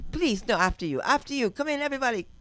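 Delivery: high, loud, over-eager courtesy; hammed-up polite insistence, rising in pitch; mock politeness. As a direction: usher everyone in with exaggerated manners. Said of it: "They're so polite".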